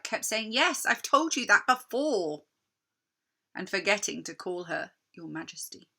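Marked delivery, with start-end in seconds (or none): 0.5-2.4 impatient, through a mouthful; mouth full. Acted. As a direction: talk round the sweets, fed up. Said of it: "with a mouth full of Turkish delight".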